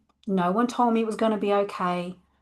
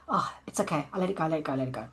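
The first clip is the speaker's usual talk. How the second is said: softer, lower, a light self-soothing murmur; soothing herself; 3 semitones lower, 7 dB quieter, faster than usual. Retold or imitated. Calming herself after snapping at a stranger, lightly soothing. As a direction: gently talk yourself back down.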